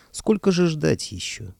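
high, slow, drawn-out complaint; mock impatience. Ruler cheekily hurrying the sorcerer, impatient.

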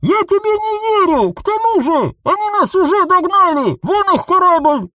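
high, loud, alarmed yelling; alarmed shout. A narrator's reading. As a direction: shout a warning about the ship. Clone panics at enemy ship. (тревожный крик)

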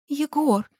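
high sobbing call. A narrator's reading. Gulya sobbing her boyfriend's name, high and tearful. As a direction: cry his name through tears. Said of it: "Гульбахор всхлипнула".

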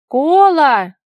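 high, loud, long call; cried out. A narrator's reading. Vara suddenly remembers the weaver girl, high shout. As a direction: shout the name in sudden realisation. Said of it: "крикнула она".

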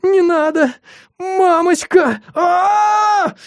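very high, slow screaming wail; howling screams. Acted. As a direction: scream for your mother in terror. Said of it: "завыл Белобрысый".

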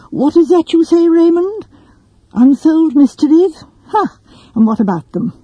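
put-on a fussy elderly lawyer, mildly scoffing; old solicitor. Old solicitor voiced in story.

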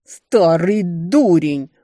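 slow, loud barking yell; barked insult. A narrator's reading. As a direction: bark it at your husband. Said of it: "рявкнула мачеха".

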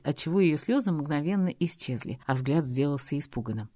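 usual speaking voice

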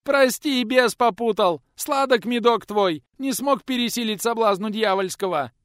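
high, loud wailing plea; tearful begging. Acted. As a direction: sob out the apology. Boy begging while crying.

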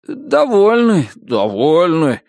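slow, muttered agreement; a few prisoners' voices. A narrator's reading. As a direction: several convicts chiming in. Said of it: "прибавилось несколько голосов".

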